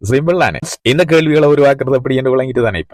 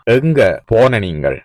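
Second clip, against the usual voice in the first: slow model question; 2 semitones lower, slower than usual. Shown as a demonstration. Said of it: "எப்படி கேக்குறேன்னு தெரியுமா?".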